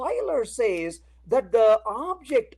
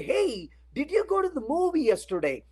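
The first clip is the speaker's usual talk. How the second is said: higher, casual friendly question; 4 semitones higher than usual. Retold or imitated. Asking a coworker about last night's movie, casually. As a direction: ask it like a curious friend. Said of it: "You look at them and say".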